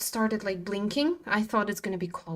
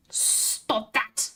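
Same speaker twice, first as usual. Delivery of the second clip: breathy whispered repeat of "Stop that.". Acted. Telling the laughing chat to stop, whispered.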